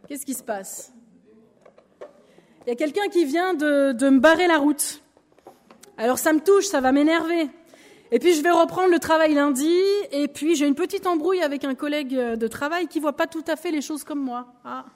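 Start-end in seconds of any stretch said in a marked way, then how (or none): 2.6-13.6 louder, mildly worked-up grumble; mock annoyance. Believer acting out her week, getting mildly irritated and louder. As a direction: act out getting irritated by a driver cutting in. Acted road and work annoyance.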